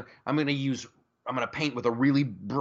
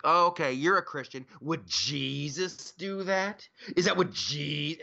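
mildly mock-incredulous, a little raised; mocking challenge; 3 semitones higher than usual. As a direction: imitate a smug gotcha question, stretching "Jesus". Mocking people who challenge Christians.

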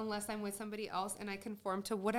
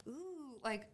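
mock surprise; 4 semitones higher, 5 dB quieter, slower than usual. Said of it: "I'm just like".

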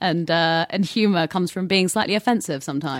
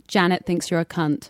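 as Janet. Shown as a demonstration. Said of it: "drop the C-bomb as Janet".

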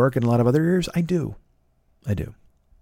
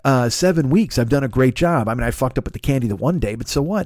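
mad inner rant. Retold or imitated. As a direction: rattle off a resentful mental protest. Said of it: "I got mad going".

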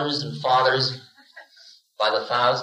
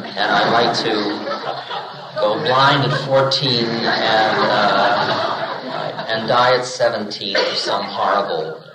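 cheerful laughing bravado; 5 semitones lower than usual. Retold or imitated. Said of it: "And you say".

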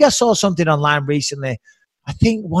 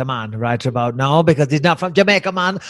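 mock Caribbean accent; 3 semitones lower than usual. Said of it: "in your best Nigerian accent".

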